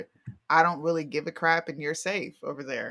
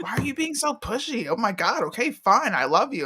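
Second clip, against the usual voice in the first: annoyed giving in; 4 semitones higher than usual. Retold or imitated.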